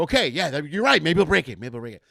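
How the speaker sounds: agree, then deflate on the repeat; resigned agreement. Retold or imitated. He echoes brother, fading.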